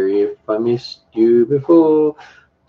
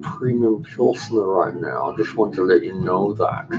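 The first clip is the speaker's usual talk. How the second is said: odd put-on voice. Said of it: "I don't know why I said it in that voice".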